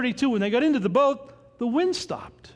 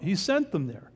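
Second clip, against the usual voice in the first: sent leaned on, falling; stress on sent. Shown as a demonstration. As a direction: press the word sent home. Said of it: "Now remember".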